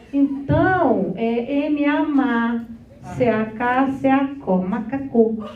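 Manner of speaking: slowly spelling out "macaco" letter by letter; sounding out words. Shown as a demonstration. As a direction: stretch "M A má" and blend into "macaco". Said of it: "sounding out syllables".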